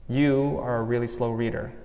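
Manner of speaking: quietly voicing the critical mom; a soft, lightly voiced scolding parent; inner critic voice. Shown as a demonstration. Inner critic echoing her mom, said quietly. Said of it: "It's my mom".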